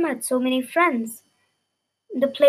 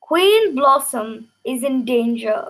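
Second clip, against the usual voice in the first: announcing; slower than usual. Acted. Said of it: "he announced".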